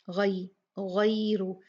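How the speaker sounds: गैरु slow with gliding ai; leen recitation. Shown as a demonstration. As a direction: draw out the ai in गैरु. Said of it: "और यहाँ पे गैरु".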